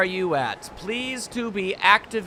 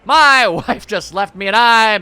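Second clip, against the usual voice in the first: loud, picking a fight; hammed-up thug yell; 7 dB louder than usual. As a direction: spit it out like a dumped angry punk.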